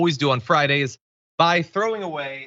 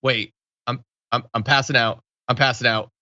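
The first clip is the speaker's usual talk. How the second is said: a hint of a man fading out, dropping lower; mock fainting commentary; 3 semitones lower than usual. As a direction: lightly act out passing out mid-sentence. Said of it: "he's live commentating his blackout".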